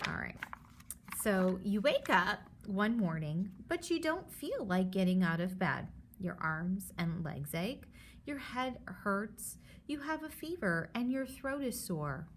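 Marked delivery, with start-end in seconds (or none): 1.2-12.3 lively storybook read for a class; reading to children. Acted. Teacher reads the germs book aloud to her students. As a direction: read it like a picture book to kids.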